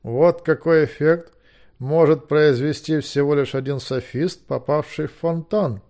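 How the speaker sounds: slow, emphatic pronouncement; triumphant lecturer. Acted. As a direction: pronounce it grandly, taking your time.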